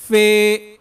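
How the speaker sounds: فا misread as فے; wrong reading. Shown as a demonstration. Teacher imitating the mistake some students make, a wrong فے. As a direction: show the wrong فے. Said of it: "یہ بھی غلط ہے".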